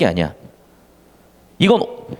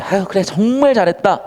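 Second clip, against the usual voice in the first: sarcastic praise; 3 semitones higher than usual. Shown as a demonstration. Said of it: "사고 치는 애한테".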